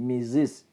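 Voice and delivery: മിസ്സസ് said as "mi-siz"; IZ ending. Shown as a demonstration. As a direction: model word, മിസ്സസ് with short i at the end. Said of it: "മിസ്സസ് എന്നല്ല". (മിസ്സസ്, "മിസ്സിസ്" എന്ന്)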